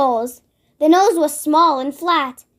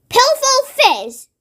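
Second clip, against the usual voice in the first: much higher, slow bellowing brute; giant's shout; 9 semitones higher, slower than usual. Acted. Blood Bottler accusing the BFG, slow shout. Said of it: "shouted the Blood Bottler".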